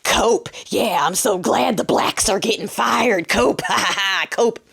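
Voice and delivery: lightly voiced gloating commenter; mocking internet trolls. Bots gloat in the comments, lightly mocked. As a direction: imitate a jeering bot with a fake laugh. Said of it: "bots who are gonna come in my comments going".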